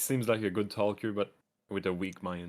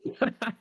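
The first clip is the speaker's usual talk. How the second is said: grinding deep sandworm; 14 semitones higher than usual. Acted. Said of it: "If you're trying to do a sandworm noise".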